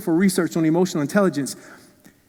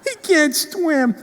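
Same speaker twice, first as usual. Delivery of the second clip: put-on high, very slow sobbing little boy; a toddler wailing that his brother will drown; terrified crying child; 10 semitones higher, much slower than usual. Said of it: "What's wrong with Dale?".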